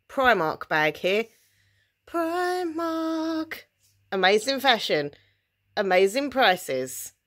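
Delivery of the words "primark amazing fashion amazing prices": high, slow slogan voice for a shop ad; advert voiceover. Pretend. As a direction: sell it like a TV ad announcer.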